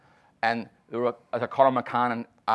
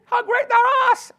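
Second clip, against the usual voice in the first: put-on much higher, louder drunken yell; shouted request; 9 dB louder than usual. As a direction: bellow the song title like a tipsy fan. Wife shouting her song request.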